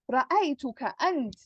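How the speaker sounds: أنت pushed as the key word; stress on أنت. Shown as a demonstration. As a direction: lean on أنت, it was you. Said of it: "Like I'm stressing".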